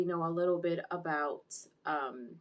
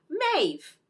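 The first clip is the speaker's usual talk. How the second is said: name called out high and loud; loud reveal; 11 semitones higher, 8 dB louder than usual. Retold or imitated. Reviewer acts Homelander outing Maeve, loud high reveal. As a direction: announce the name in a raised, high voice.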